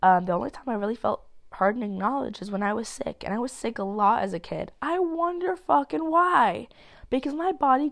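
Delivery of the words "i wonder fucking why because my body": higher, slow, dripping sarcasm; sarcastic. Real, not acted. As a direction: drawl it out ironically. Sarcastic aside about childhood.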